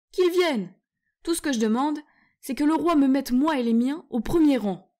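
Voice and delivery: high, loud squeaky bravado; a tiny warrior itching for battle; tiny eager warrior. Acted. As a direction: mouse demanding the front rank, high and loud. The mouse begs for the front line.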